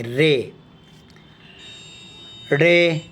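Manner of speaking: رے said with a closed long e, not را; short e letter name. Shown as a demonstration. Teacher showing the class رے with a closed e. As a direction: say رے with a closed e sound. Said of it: "مجہول پڑھیں گے".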